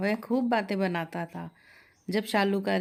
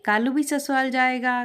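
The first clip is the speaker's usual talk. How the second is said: higher, louder chirpy parrot chant; 5 semitones higher, 4 dB louder than usual. Acted. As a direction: squawk it like a happy talking parrot. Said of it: "और फिर बोलने भी लगा". (चहकता तोता)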